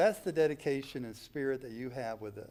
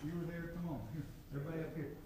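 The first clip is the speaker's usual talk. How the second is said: calling out across the room, off-mic; summoning people from a distance; calling from far away; 4 semitones higher, 10 dB quieter, faster than usual. Real, not acted.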